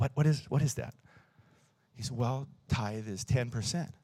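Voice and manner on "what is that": whispering, slower. Speaker retells asking the boy beside him a question, whispering. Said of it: "I'm whispering".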